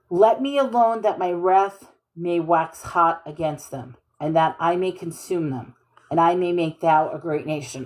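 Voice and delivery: a darker, angrier reading; God's anger. Shown as a demonstration. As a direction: let the wrath simmer low and heavy. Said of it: "Okay, so this is anger".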